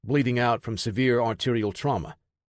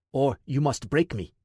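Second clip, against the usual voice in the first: Ivan Drago impression; 2 semitones higher than usual. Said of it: "an impression of Ivan Drago".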